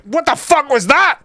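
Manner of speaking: high-pitched mock outburst of disbelief; retold shock. Fan re-enacting hearing a player's voice, mock shock.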